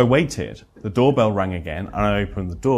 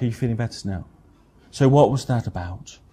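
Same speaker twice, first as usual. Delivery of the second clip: mock inane question. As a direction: mimic a clueless therapist filling silence. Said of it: "some inane question like".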